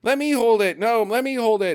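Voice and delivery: high, eager imitation of a gang grabbing a prize; mock excited squabble. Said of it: "And they're like".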